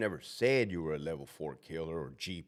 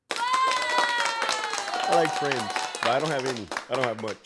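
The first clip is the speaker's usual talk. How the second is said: very high, stretched-out whiny falsetto; hammed-up high pitiful voice; mock sad falsetto; 9 semitones higher, 6 dB louder than usual. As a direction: whine it like a lonely child, very slow. Self-mocking joke voice.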